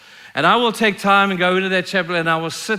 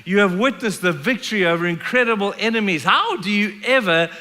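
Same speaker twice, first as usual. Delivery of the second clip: higher, emphatic disbelief; incredulous reproach; 4 semitones higher than usual. Acted. Reader questioning Israelites who forgot God, incredulous reproach. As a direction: challenge them in amazement, leaning on key words.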